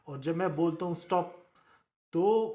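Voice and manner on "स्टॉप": स्टॉप with no air released on the P; no puff on P. Shown as a demonstration. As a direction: say स्टॉप, holding back the puff on the final P. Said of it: "पी पर कोई puff पड़ ही नहीं रहा है".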